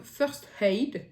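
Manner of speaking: brand name in an English accent; light English accent on the English words. Real, not acted. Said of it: "j'ai un accent, euh, anglais ici".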